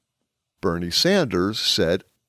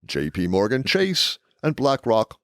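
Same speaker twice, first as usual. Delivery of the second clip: announcer voice. Shown as a demonstration. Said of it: "This is my announcer voice".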